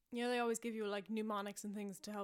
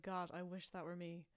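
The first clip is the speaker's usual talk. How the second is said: whispered joke; 3 semitones lower, 5 dB quieter than usual. Retold or imitated. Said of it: "I might whisper it to Kate".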